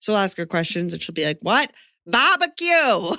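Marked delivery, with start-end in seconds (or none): 1.4-3.2 put-on broad, heavy Boston accent, pitched up. Quoting a man's wife answering his questions: imitating a very boston accent. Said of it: "her very Boston accent".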